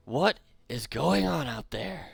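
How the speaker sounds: loud, high, drawn-out demand; shouted from inside tent. Acted. Woken sleeper calling out from the other tent, loud demand. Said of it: "you hear from the other side".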